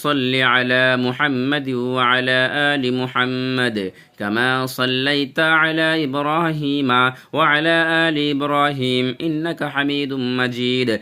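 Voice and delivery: slow, reverent Arabic chanting of a blessing; slow devout recitation. Real, not acted. Teacher reciting a blessing before class, slow and devout. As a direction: recite it slowly, like a prayer.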